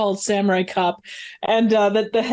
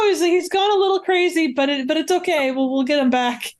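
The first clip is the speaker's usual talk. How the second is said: mock Padme; 6 semitones higher than usual. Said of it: "she's like".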